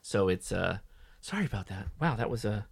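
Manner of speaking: fumbling after knocking the mic away; after dropping mic. Real, not acted. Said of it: "knocked the mic off".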